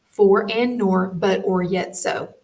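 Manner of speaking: slow down and space each word. Shown as a demonstration. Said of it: "I'm gonna say that slower".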